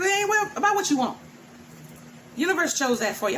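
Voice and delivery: lightly voiced lofty decree; voice of the universe. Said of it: "And it's like".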